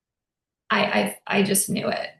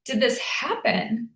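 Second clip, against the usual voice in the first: higher, anguished plea to the universe; mild retold anguish, higher pitch; devastated lament; 3 semitones higher than usual. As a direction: cry out why, grieving. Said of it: "devastated I was".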